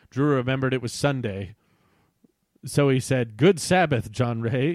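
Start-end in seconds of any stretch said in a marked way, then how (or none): 3.4-4.8 loud, mannered courteous greeting; polite greeting. A narrator's reading. Drew greeting the dragon John Ray, polite. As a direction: greet them with formal courtesy. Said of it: "in a polite voice".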